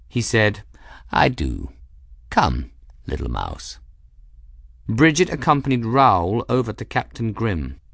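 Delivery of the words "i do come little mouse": low, lofty cat; aloof cat voice. Acted. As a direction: command it with calm pride. Cat character voice.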